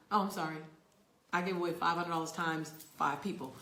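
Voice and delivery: normal talking voice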